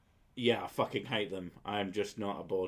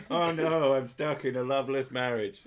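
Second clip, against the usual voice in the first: mock porn victim; 3 semitones higher, 5 dB louder than usual. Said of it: "parodying porn lines".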